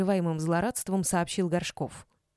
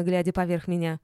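ordinary delivery, nothing marked

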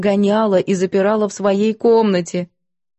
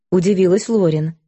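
ordinary delivery, nothing marked

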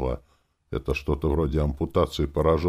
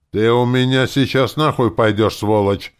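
louder, higher, beside himself with rage; furious yell; 7 semitones higher, 8 dB louder than usual. A narrator's reading. Hero screams at the druid offering to free his friend, furious yell. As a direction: bellow it at the druid. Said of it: "заорал я вне себя".

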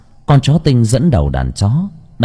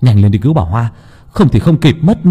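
urgent call; 2 semitones higher, 3 dB louder than usual. Acted. Villager urges the crowd to save Bà Hoa, loud and urgent. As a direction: hurry everyone along.

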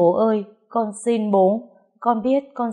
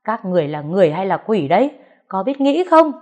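furious yelling; 5 dB louder than usual. Acted. Grieving child screaming at the man blamed for mother's death, furious. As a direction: spit the mocking words back, building to a shriek. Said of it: "điên điên lên chửi bới".

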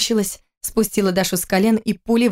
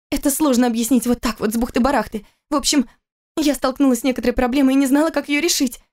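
nervous confession; 6 semitones higher than usual. Acted.

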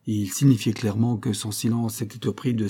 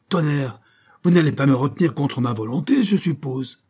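strangled voice; 5 semitones higher, 4 dB louder than usual. Acted. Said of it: "la voix étranglée".

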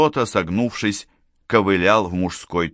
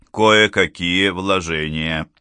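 Enderby, slow evasive reply; 2 semitones lower, slower than usual. Acted. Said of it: "ответил Эндерби".

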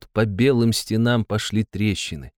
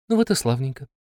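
satisfied; 3 semitones higher than usual. Acted. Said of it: "удовлетворённо сказала".

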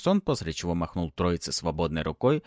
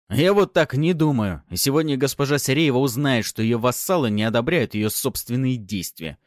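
stern threat; 6 semitones higher, 6 dB louder than usual. A narrator's reading. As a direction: lay down the consequences. Fyodor threatening the vassals.

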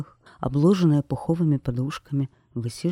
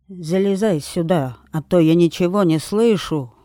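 loud, higher call down from the tree; shouting; 3 semitones higher, 6 dB louder than usual. Acted. Witch shouting down to the queen to climb up, loud call. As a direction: yell so she can hear you. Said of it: "крикнула колдунья".

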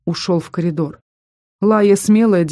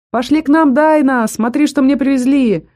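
much higher and louder cheerful call; shouting after her; 8 semitones higher, 4 dB louder than usual. Acted. Vampire calls after the running girl, loud and high. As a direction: call out across the alley. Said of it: "Вампир успел прокричать мне вслед".

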